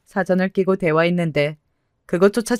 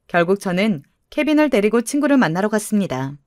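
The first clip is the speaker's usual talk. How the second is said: ordinary delivery, nothing marked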